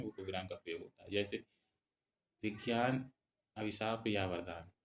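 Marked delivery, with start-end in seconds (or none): 2.4-4.7 "विज्ञान" set apart, then a short stop; colon pause. Shown as a demonstration. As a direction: slowly, pause after "विज्ञान" before "अभिशाप". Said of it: "किसी कथन को अलग दिखाना होता है". ("विज्ञान" को अलग बोलकर ठहरें, फिर धीरे आगे)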